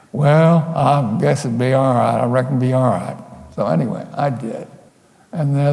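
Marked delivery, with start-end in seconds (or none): 0.1-3.2 imitating a rural Southern man; imitated Southern local. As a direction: grant it grudgingly in a put-on Southern accent. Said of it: "And they said".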